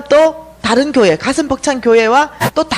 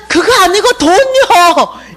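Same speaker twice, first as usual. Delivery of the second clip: higher, slow, insistent plea; insistent protest; 7 semitones higher, 4 dB louder, much slower than usual. Retold or imitated. Dreamer protesting to the figures that she wants money. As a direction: refuse and insist, drawn out.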